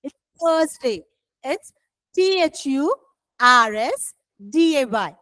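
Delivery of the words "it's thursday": corrective Thursday without the R; Thursday said correctly. Shown as a demonstration. Teacher repeats the right form, correctly pronounced Thursday. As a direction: leave the R silent in Thursday. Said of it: "not Thursday".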